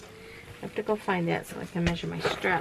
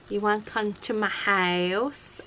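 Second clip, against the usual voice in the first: imitating a child's Southern drawl; slow Southern vowels, stretched out; strong Southern accent; 3 semitones higher than usual. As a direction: mimic a little Southern girl. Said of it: "a very strong Southern accent".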